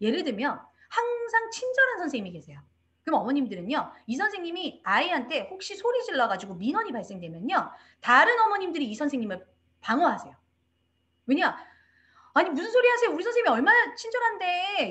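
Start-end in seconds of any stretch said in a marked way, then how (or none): 12.3-14.9 high, loud, indignant voice. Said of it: "이렇게 방어를 하시는데".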